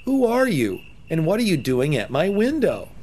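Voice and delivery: put-on a surprised little boy at the window; lightly voiced boy. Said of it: "Jonathan said".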